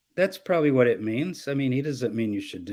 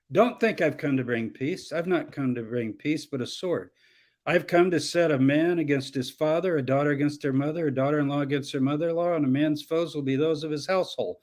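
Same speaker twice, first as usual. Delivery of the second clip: cutting to the chase. Shown as a demonstration. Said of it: "I'm cutting to the chase".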